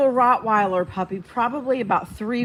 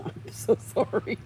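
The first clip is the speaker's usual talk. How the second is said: breathy laugh through the apology; 6 dB quieter than usual. Real, not acted. Laughing sorry to viewers for swearing. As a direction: giggle it out, half sorry.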